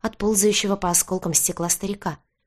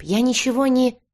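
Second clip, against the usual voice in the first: higher-pitched, mildly tearful protest; sobbing plea; 7 semitones higher, 3 dB louder than usual. A narrator's reading. Jeweler pleading innocence to the baron, mildly sobbing. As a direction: break off mid-plea. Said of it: "послышался всхлип".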